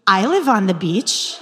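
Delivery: "I live on the beach." said with a laugh, stress on "live"; laughing confirmation. Retold or imitated. The man confirms with a laugh. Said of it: "he repeats it".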